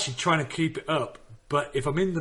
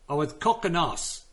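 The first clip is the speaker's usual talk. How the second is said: mock Afrikaans, higher pitched; Afrikaans accent; 4 semitones higher than usual. Shown as a demonstration. Comic demonstrating the trick to friends, Afrikaans accent. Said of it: "the trick with Afrikaans accents is".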